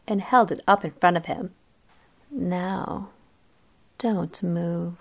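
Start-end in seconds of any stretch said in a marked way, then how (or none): 2.3-5.0 soft low warning in his ear; quiet warning. A narrator's reading. Barber warning the boy in the chair, quiet. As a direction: murmur it close into his ear. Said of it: "I said quietly into his ear".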